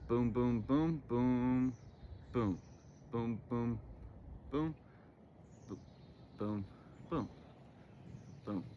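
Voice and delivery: soft repeated boom sounds; boom noises. Shown as a demonstration. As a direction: mouth each click as a quiet boom. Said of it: "I'm making boom noises every time I feel like a click".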